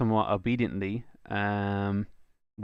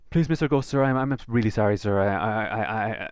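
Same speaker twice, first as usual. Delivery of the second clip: scared pleading; 3 dB louder than usual. Acted. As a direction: beg the ghost in a panic. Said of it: "he's barely illegible at this point".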